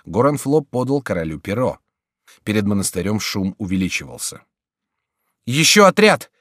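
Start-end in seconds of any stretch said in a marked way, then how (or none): 5.5-6.3 high, loud shout of alarm; alarmed cry. A narrator's reading. Monk running in with news of troops, alarmed cry. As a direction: shout the news as you run in. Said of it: "вскричал прибежавший монах".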